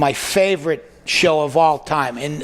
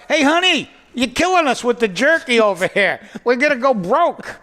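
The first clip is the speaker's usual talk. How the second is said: higher, half-joking yell to the wife; mock yelling; 7 semitones higher than usual. Husband yelling at his wife over jerky, mock yell. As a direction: call out in mock alarm. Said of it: "I'm yelling at my wife".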